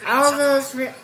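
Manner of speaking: complaining Southern storyteller; Southern accent. Acted. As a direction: grumble in a country Southern accent. Reads Southern character's lines.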